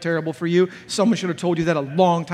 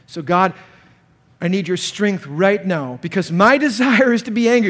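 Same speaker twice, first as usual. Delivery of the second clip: earnest prayer; 5 semitones higher, 5 dB louder than usual. Acted. Pastor praying aloud in earnest.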